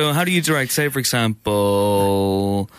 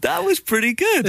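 impressed. Real, not acted.

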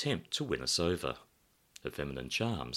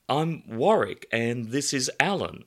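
lightly voiced friend; 7 semitones higher, 6 dB louder than usual. Warwick voiced in story.

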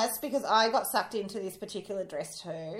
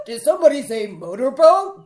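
loud cheeky laugh-talk; 8 semitones higher, 14 dB louder than usual. Pretend. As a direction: shout the joke through laughter. Cheeky joke amid laughter.

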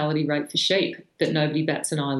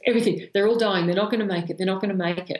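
mild retold panic; 3 semitones higher, faster than usual. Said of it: "he was in a complete fluster".

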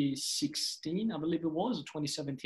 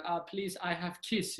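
mom impression; 3 semitones higher, 4 dB quieter than usual. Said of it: "So she'd be like".

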